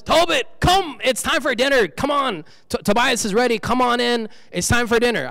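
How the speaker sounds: a hint of a wife calling her husband to dinner; wife calling her husband in for dinner, lightly voiced. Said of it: "and then his wife says".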